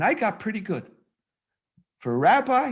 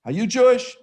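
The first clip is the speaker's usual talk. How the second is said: lightly voiced stranger, louder and higher; mock question; 10 semitones higher, 7 dB louder than usual. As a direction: mimic the nosy stranger asking.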